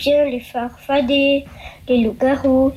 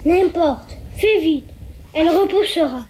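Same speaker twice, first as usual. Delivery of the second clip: higher-pitched, impatient devil's orders; impatient urging; 4 semitones higher than usual. Acted. Trapped devil urging the woodcutter to cut his tail, impatient. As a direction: brush off the objection and hurry them along.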